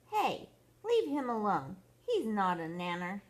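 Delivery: mild storybook cry of protest; Chucky crying out. Acted. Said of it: "Chucky cried out".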